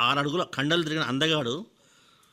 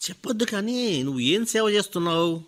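higher, dismissive jab; condescending; 7 semitones higher than usual. Acted. Rich man belittles the old teacher, condescending. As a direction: talk down to him. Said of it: "కొంచెం హీనంగా చూస్తూ".

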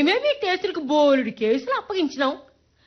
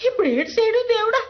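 rising wail; 4 semitones higher, faster than usual. Acted. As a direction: wail it up to god. Lament repeated, rising.

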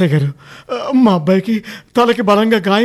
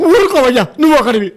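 angry shout; 4 semitones higher, 3 dB louder than usual. Acted. Father snaps at mocking constable.

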